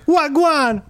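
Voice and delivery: high, silly fake Irish voice; hammed-up mock Irish accent; bad Irish accent. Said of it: "I was doing Irish, man".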